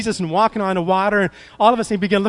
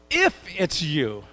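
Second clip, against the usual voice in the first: doubtful; slower than usual. Retold or imitated. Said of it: "the doubt that was in his voice".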